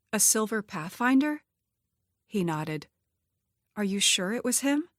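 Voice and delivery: fear rising as she asks; woman learning her ex drove past her house; frightened questions. Acted. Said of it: "Fear stabbed at her".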